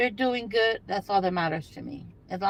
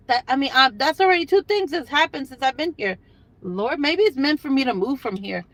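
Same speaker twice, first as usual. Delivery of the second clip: louder, higher, fed-up rant; exasperated; 4 semitones higher, 4 dB louder than usual. Real, not acted. Complaining to viewers about local drivers, fed up. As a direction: throw your hands up in disbelief.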